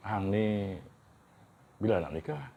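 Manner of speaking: Kedah dialect question; teasing northern Malay villager; kedah malay accent. Shown as a demonstration.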